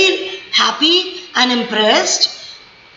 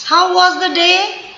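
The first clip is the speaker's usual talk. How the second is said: higher, slow concerned question; caring child; 4 semitones higher, slower than usual. Shown as a demonstration. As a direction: ask dad gently about his day. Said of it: "See my tone, my stress". (बच्चा धीरे से पूछता है)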